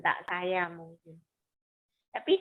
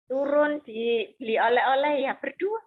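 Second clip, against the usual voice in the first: bitter sarcasm; 4 semitones higher, 7 dB louder than usual. Retold or imitated. Kesal melihat suami dan wanita.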